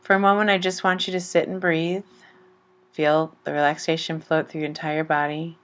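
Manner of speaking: gentle chakra meditation over music; guided meditation. Acted. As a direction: ease the listener into calm, one breath at a time.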